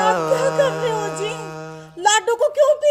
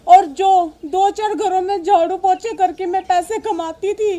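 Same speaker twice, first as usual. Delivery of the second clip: sobbing mother's lament; crying. Acted. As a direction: cry through the words, sinking at the end. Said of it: "आप रो क्यों रही हो". (रोते हुए दुखड़ा सुनाना)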